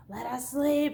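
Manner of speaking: pleading parents. Retold or imitated. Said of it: "her parents are, like, freaking out".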